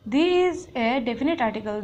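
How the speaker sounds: slow, deliberate reading of the rule; teacher reading a rule aloud slowly; slow dictation. Shown as a demonstration. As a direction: read it slowly for students to follow. Teacher reads rule sentence.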